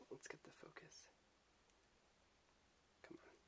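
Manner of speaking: breathy whispered aside; whispering. Real, not acted. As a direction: whisper it to yourself. Quiet aside while adjusting camera.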